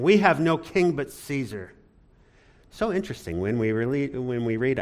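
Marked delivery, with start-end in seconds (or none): 0.0-1.7 raised, higher-pitched quoted proclamation; emphatic imitation of a public avowal; crowd's declaration. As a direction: declare it as the accusers would.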